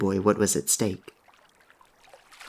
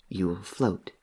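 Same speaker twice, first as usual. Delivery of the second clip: softer hushed reassurance; soft repeat; 2 semitones lower, 10 dB quieter, slower than usual. Acted. Dead boy reassuring Henry behind him, softly. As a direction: say it again gently. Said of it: "he repeated".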